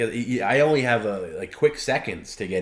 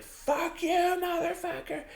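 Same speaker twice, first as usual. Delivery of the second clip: very high, thin squeaky mockery of him; mimicking Perry. Imitating Perry yelling back, very high squeak. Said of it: "he was like".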